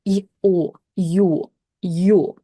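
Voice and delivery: "и", "о" glided together into "ё"; "ё" modelled as yo; vowel breakdown. Shown as a demonstration. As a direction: sound out "и", "о", then blend to "ё". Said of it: "which is basically pronounced as".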